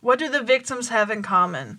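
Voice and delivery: What punched at the start; stress on what. Shown as a demonstration. Repeating the question, stressing What. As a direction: lean on What, the rest falls away. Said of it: "repeats the question, moving the stress".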